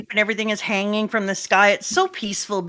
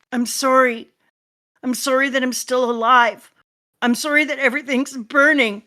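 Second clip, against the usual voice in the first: mild, acted tearful apology; crying child; 2 semitones higher than usual. Child blames themselves for the fire, lightly acted crying. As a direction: apologize like a child on the edge of tears. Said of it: "The child starts crying".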